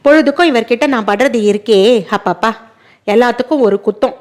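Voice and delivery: a hint of a shrill-tempered wife, quickening as she rants; lightly voiced nagging daughter-in-law. Wife griping to her husband about his father, mildly voiced complaint. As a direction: complain fast and aggrieved, half-hearted.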